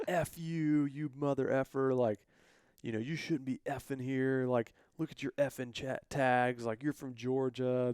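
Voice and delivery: hammed-up cussing rant at an outsider; retold neighbors swearing at the hunter; mock angry cussing. Locals cussing him out, retold.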